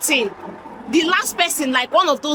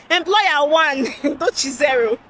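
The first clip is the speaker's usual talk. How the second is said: laughing scoreboard. Real, not acted. Vlogger laughing while scoring herself against the employer. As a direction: chuckle through a mock final score. Mock scoreboard after failed interview.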